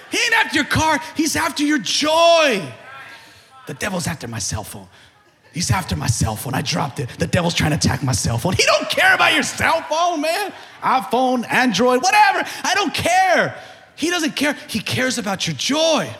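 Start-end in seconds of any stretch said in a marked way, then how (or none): 3.7-8.5 lightly lowered mock complaint; mock fretting believer. Preacher mocking a believer blaming the devil for a phone, mock fret. 8.5-16.1 loud, higher preaching; full-force preaching. Acted. Pastor telling church the devil wants their joy, shouting.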